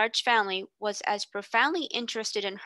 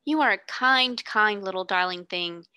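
lightly voiced grateful girl; 3 dB louder than usual. Sarah thanks the boy.

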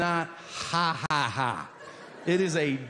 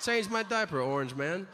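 a hint of a stately foreign leader, punching CHANGE; lightly voiced world leader scolding; mock formal head of state; foreign president. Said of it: "The president of another country should tell ours".

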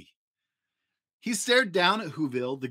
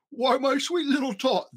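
higher, sugary fake Santa voice; fake Santa lying; 10 semitones higher than usual. A narrator's reading. Grinch fooling little Cindy Lou, higher sugary fake Santa. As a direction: coax her sweetly, all put-on charm. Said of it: "the fake Santa Claus lied".

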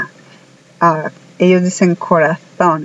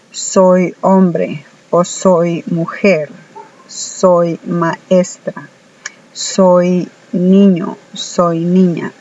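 slow example phrases; slower than usual. Shown as a demonstration. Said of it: "en español nosotros decimos".

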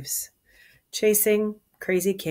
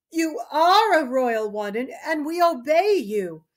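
slightly higher, respectful courtier; lightly voiced gentleman; 8 semitones higher than usual. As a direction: humour the old king gently. Gentleman soothes Lear.

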